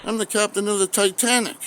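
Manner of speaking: high, proud boast; proud captain. Retold or imitated. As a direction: announce it with pride. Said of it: "He says".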